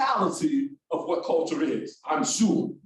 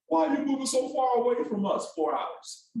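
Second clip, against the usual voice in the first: a hint of a protesting mom, starting higher; lightly voiced mom; 6 semitones higher than usual. Son retelling mom's reaction to his move, lightly imitated mom. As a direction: imitate mom's question, high start falling away. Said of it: "I told my mom".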